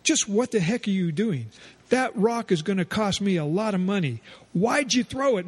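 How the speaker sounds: put-on angry doctor pitched high at the boy; angry shouting. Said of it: "then shouted at him".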